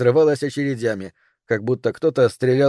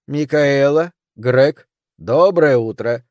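bright, slow, booming greeting from hidden speakers; a loud host voice over a speaker; disembodied voice; 5 dB louder, much slower than usual. Acted. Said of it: "голос Феникса".

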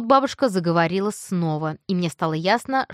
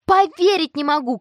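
high, loud thrilled cry; excited shout; 8 semitones higher, 5 dB louder than usual. Acted. Tina shouting with joy about being mentioned, high and loud. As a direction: shout it in sheer delight. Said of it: "кричала Тина".

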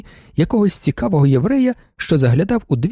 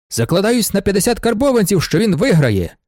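exclaimed bet; 5 semitones higher than usual. Acted. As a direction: call out the wager with gusto. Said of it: "вигукнув директор".

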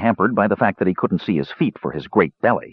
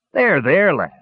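high, indulgent comforting; lightly patronizing dwarf, pitch well up; mock soothing; 9 semitones higher, slower than usual. A narrator's reading. Dwarf helping the fallen captive up, mock soothing.

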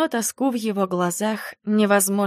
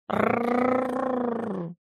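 soft rolling rrr growl, much softer; low cat growl; 4 semitones higher, 7 dB quieter than usual. Acted. The offended cat growls at her hug, soft rolling growl. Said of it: "невольно прорычал Григорий".

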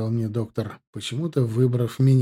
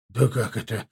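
ordinary delivery, nothing marked

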